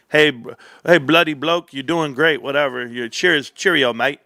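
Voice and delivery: lightly hammed-up British bloke accent, teasing; imitating cheery English chat viewers with a hint of British accent; mock English accent. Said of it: "And you know the English".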